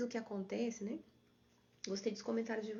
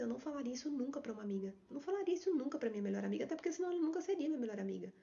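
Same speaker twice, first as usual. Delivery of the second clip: imitated emphatic denial; 3 semitones higher, faster than usual. Coach quotes clients refusing to say it to a friend, quick emphatic denial. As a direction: rattle off everyone's firm "never". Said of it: "todo mundo me fala a mesma coisa".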